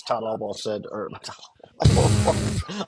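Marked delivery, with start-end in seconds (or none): 1.1-2.8 repeating it through laughter; giggly high retake; laughing. Retold or imitated. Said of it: "I'm repeating Jane in my ear".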